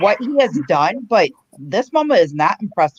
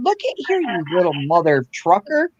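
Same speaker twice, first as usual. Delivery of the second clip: retold angry scolding. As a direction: scold him like a fed-up mom. Mom telling off screaming son.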